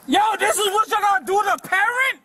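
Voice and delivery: fast, high shout; yelling in outrage. Real, not acted. Father protests arrest.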